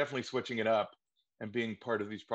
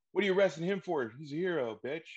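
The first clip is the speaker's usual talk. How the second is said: indignant bystander; 6 semitones higher than usual. Retold or imitated. Bystander at crime scene, higher indignant protest. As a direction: protest the arrest at the crowd. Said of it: "he's like".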